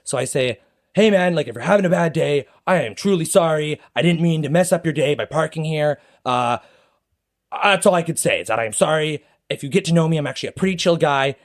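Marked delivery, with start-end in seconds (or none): 0.9-1.5 mild conciliatory opener, slightly raised pitch; de-escalating. Retold or imitated. The speaker trying to calm the angry driver, de-escalating. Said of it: "de-escalate". 1.5-11.4 earnest, raised-pitch retold apology; de-escalating apology. The speaker apologising to the angry driver, de-escalating. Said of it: "de-escalate".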